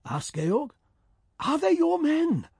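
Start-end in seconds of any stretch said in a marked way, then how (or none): 1.4-2.5 high, impatient repeat. Acted. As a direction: demand it again impatiently. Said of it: "he repeated impatiently".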